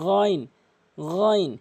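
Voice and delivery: গইন as a voiced gargled fricative; back-throat ghain. Shown as a demonstration. Teacher showing where the letter exits, gargled গইন. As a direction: roll গইন from the top of the throat. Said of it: "হলকের শেষ থেকে".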